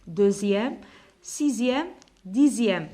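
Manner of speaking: "Deuxième, sixième, dixième" with the x said as z; ordinal numbers read out. Shown as a demonstration. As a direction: model each ending "-zième" clearly. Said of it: "نسموهم les nombres ordinaux". (نطق "Deuxième" و"sixième" و"dixième" بحرف z)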